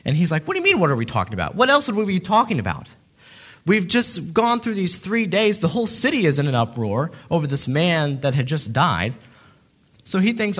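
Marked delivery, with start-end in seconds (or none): 0.5-9.1 sarcastic. Retold or imitated. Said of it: "Cleopas was sarcastic a little bit".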